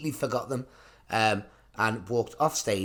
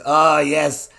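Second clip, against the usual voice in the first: hammed-up dame; 4 semitones higher, 8 dB louder, much slower than usual. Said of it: "And she goes".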